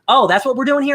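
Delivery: mock surprise. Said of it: "I'm like".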